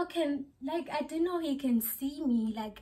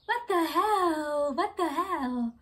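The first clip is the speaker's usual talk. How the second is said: disbelief; 5 semitones higher, 3 dB louder, slower than usual. Real, not acted. Ranting about being seen naked.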